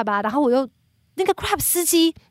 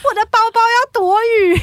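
high, loud laughing wail; worried about her new Dior bag in the rain, laughing and wailing; laughing half crying; 10 semitones higher, 7 dB louder than usual. Real, not acted. Fussing over Dior bag in rain.

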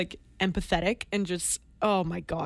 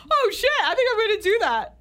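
excited laugh; 13 semitones higher, 4 dB louder than usual. Real, not acted. Sudden idea, excited laughing.

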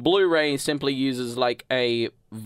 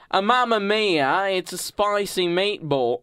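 high, hammed-up Italian catchphrase; mock Italian accent; 7 semitones higher than usual. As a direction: caricature an Italian accent, pitched up. Mock Italian accent demo, then apologises.

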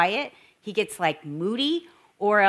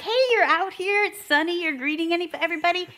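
much higher, bright cheerful hello; chirpy greeting; 8 semitones higher than usual. Retold or imitated. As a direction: sing out a sunny hello to the husband. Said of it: "I see Dave, like".

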